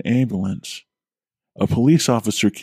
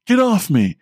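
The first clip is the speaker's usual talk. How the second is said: retold scream; 10 semitones higher than usual. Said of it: "I remember screaming".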